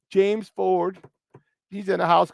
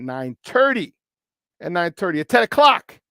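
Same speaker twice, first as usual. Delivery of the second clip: thick local Chicago accent on the time; playful Chicago accent. Shown as a demonstration. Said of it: "That's my Chicago accent".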